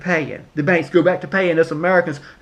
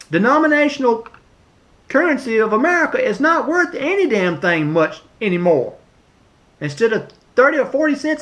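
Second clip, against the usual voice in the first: higher, heated rant about the dollar; getting mad; 6 semitones higher than usual. Real, not acted. Ranting at President Trump about the worthless dollar, getting mad. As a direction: let the anger rise as you push the point. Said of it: "Now, I'm getting mad here".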